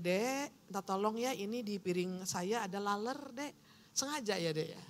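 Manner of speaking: soft, gentle ask to the waiter; polite request. Pretend. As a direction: ask the waiter sweetly and quietly. (meminta pelayan dengan lembut dan pelan)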